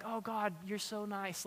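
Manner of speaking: soft, tame little praise; hushed imitation of timid devotion; mock sweetness. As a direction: say it very softly, as toothless flattery. Mock tame worship of toothless God.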